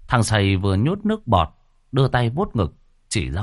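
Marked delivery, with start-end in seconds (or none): none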